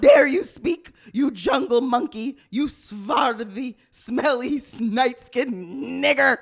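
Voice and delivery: loud put-on Indian accent. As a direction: yell it in a hammy Indian accent. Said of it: "you must do this in an Indian accent".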